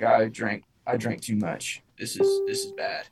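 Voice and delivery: quiet alarm. Retold or imitated. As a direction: mutter it under your breath as the drunkenness hits. Drunk realizing he drank too much.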